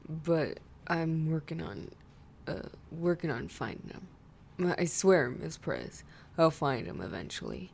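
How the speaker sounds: low, hesitant mumble; mumbled excuses. Acted. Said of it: "Guzma mumbled".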